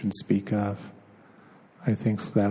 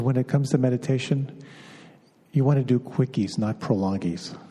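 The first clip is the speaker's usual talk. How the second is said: a playful hint of Brooklyn, quoting a teacher; Lama Surya Das Brooklyn accent; 3 semitones higher than usual. Teacher quoting Lama Surya Das to the students in a light Brooklyn accent. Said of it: "I will do his accent. He's from Brooklyn".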